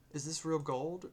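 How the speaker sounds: high, loud astonished question; can't believe the coin is real; amazed question. Acted.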